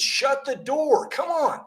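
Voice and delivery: put-on high-pitched, drawn-out call to the kids; mock parent yelling. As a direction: act out an exasperated parent calling across the house. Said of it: "I'm yelling to my kids".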